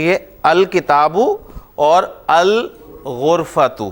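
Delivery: الکتاب and الغرفۃ read slowly, lam sounded; al-kitab, al-ghurfa, slowly; slow model reading. Shown as a demonstration. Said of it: "انہیں آپ پروناؤنس کرتے ہیں".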